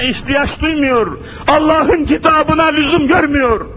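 rising fiery preaching. Acted. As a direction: build the sermon to a peak. Sermon rising to a peak.

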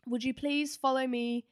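light imitation of a Greek waiter's broken English; a hint of a Greek accent, polite and careful; mildly imitated Greek host inviting guests. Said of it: "in a very broken English, like, Greek accent".

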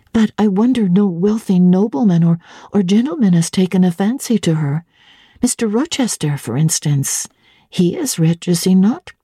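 curious governess pressing for details; young Jane. Acted. Jane probes.

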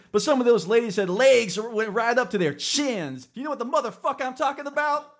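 loud, high, brash character voice; the Kid impersonation. Acted. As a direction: belt it out high, in a hammed-up character voice. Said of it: "here's my best kid impersonation".

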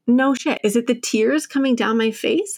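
retold sassy comeback, pitched a bit up; mock a painfully obvious observation; snippy, mildly sarcastic retort. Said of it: "I get sassy and snippy and sarcastic".

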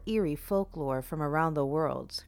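sinister host welcoming the audience; a creepy host greeting his fiends; horror host. Acted.

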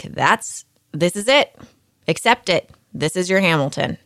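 imitating a friend laying down the verdict; brisk, mildly firm, case closed; accept-it tone. Friend urging her to accept the understudy, firm tone. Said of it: "in that tone of voice where it's like".

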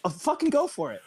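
high, sarcastic jab; mock it with a sarcastic high voice. Sarcastic retort.

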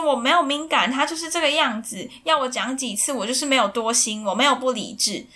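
blowing up. Retold or imitated. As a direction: let it burst out, hurt and fed up. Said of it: "然后小芬就爆掉了".

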